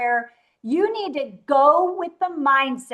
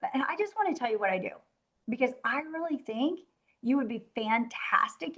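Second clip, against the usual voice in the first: soft sales pitch; 4 semitones lower, 5 dB quieter than usual. Retold or imitated. Acting out her pitch to Debbie.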